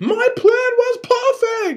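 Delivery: put-on shrill, drawn-out scream with strong Japanese accent. Retelling how a player reacted to a counterspell, imitating him screaming in strong accent. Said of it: "he starts screaming".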